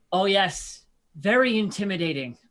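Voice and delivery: drawn-out sarcastic taunt; mock being impressed, savouring each phrase; sneering mock intimidation; vicious mockery. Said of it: "vicious mockery him".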